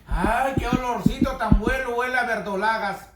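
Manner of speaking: long appreciative "ay", then relish; delighted exclamation over the food; savoring delight. Real, not acted. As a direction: swoon over a lovely aroma. Savoring the aroma before tasting.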